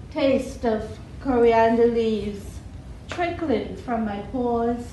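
measured poem reading with pauses after each image; live poetry reading, line by line; poetry recital. Acted.

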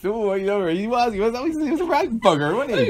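high, hammed-up Bristolian accent; mock Bristolian. Host echoing co-host's impression in high mock Bristolian. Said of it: "my best Bristolian accent".

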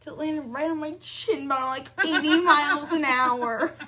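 laughing. Real, not acted. Retelling phone hitting face.

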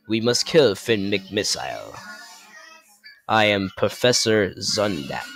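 a hint of a cartoon mastermind; Professor Zundap. Professor Zundap orders a killing, lightly voiced villain. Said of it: "Professor Zundap is the main villain".

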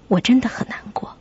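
whispered, heartbroken; sad whisper. Acted. Narrator whispering her sadness about her friends. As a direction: breathe the words out softly in sorrow.

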